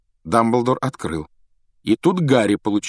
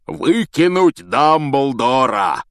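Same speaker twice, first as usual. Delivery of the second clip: slow, loud, higher outrage; Hagrid raging; 6 semitones higher, 6 dB louder, much slower than usual. A narrator's reading. Hagrid raging at Malfoy, loud outrage. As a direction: explode. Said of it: "Хагрид разбушевался".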